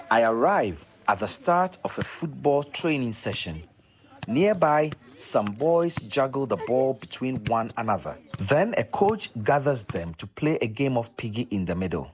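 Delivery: polished presenter read with punched key words; scripted, deliberate radio narration; documentary narration. Acted. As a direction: set up the story for radio listeners.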